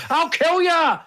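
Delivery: high-pitched mock-furious cry; hammed-up rage, voice shooting right up; mad threat. A-Bomb turns around on the Hulk, high mock rage. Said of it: "he goes mad at the Hulk".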